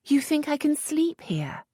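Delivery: high, disbelieving; can't believe the suggestion; incredulous question. A narrator's reading. Lisette doubting the earl, high disbelief.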